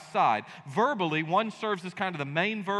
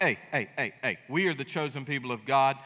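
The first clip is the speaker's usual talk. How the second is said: smug superiority; 2 semitones lower than usual. Retold or imitated. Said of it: "Israel walked around like".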